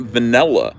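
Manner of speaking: vanilla said va-NELL-a. Retold or imitated. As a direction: make vanilla rhyme with umbrella. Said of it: "There's no E in there".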